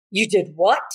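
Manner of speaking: sharp gasp, then disbelieving question; mock a scandalized overreaction; shocked reaction. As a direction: gasp as if appalled. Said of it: "let's not react to".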